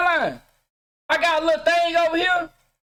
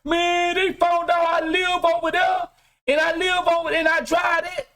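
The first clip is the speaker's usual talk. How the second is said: panicked exposed poser; 4 semitones higher than usual. Retold or imitated. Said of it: "you ready to commit suicide when they find out".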